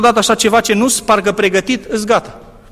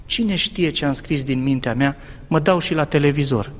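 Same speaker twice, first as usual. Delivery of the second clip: doubting whisper of thought; 5 semitones lower, 5 dB quieter than usual. Retold or imitated. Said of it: "a venit Satana la mintea mea".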